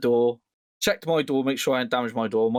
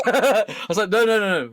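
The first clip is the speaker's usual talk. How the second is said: laughing; 6 semitones higher, 3 dB louder than usual. Real, not acted. Laughing retelling refusing to key car.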